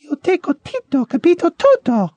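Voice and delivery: high-pitched fake Italian quarrel. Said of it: "High voice".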